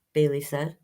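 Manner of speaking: gentle storybook read-aloud; reading to children. Acted. Librarian reading a picture book to children, gentle storyteller voice.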